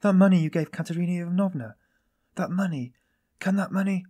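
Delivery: high, loud, alarmed realization; sudden cry. A narrator's reading. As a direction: cry out in dawning horror. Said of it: "she cried suddenly".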